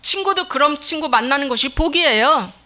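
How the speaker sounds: normal talking voice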